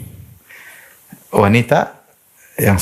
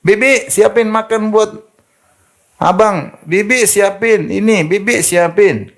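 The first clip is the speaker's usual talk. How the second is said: high, slow, mock-commanding calls to the maid; bossy rich wife; 10 semitones higher, slower than usual. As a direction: lord it over the maid, hammed-up. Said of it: "pembantunya suruh". (istri kaya menyuruh pembantu dengan nada memerintah)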